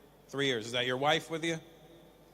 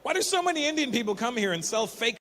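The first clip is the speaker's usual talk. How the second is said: usual speaking voice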